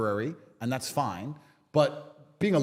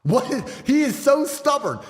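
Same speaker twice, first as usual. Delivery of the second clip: loud, slow mock exasperation; hammed-up, higher-pitched frustrated outburst; imitated frustration; 5 semitones higher, 5 dB louder, slower than usual. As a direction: mimic opponents at their wits' end. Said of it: "they're very frustrated".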